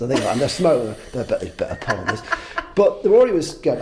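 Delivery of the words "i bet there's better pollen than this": put-on rogue bee in a light southern accent, rattled off fast. Smoking rogue bee muttering in a light southern accent. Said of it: "I think they've got southern accents".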